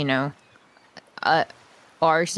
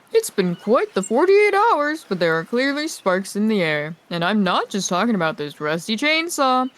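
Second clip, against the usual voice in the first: character voice; 4 semitones higher, 3 dB louder than usual. Acted. Reads character's flirty quoted line.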